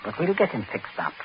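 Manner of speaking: soft, cold, low instructions; calm and chilling, quietly in control; low menace. Acted. Prince quietly orders Smollett to dump the body, cold menace. Murderer calmly instructs captive.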